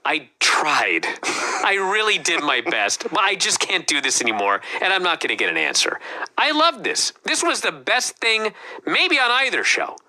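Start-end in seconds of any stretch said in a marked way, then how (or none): 0.0-6.0 resigned admission. Retold or imitated. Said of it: "in a tone of voice where he's acknowledging".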